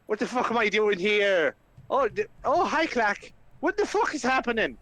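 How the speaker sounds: high-pitched, slightly alarmed confusion; Flynn, bewildered. Acted. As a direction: wake up baffled and swearing. Flynn wakes up bewildered and swearing.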